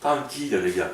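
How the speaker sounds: put-on calm the lads down in a borrowed southern French accent. Preacher telling the lads to relax, southern French accent. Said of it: "avec mon accent du sud".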